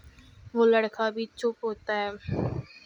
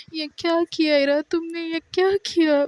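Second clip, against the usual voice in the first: mild mock scream; 5 semitones higher than usual. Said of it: "وہ چیخیں مار رہی ہوتی ہے".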